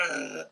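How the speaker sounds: subdued comic "argh"; imitated pained groan. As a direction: groan like a bitten man, amused. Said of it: "starts biting the guy's hand".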